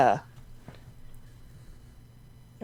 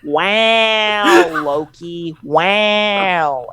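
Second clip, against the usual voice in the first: higher awed drawn-out wow; Owen Wilson wow; 5 semitones higher, much slower than usual. Retold or imitated. Friend retells Mobius arriving through portal, awed high wow. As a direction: marvel at Loki in his laid-back way. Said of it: "you just hear".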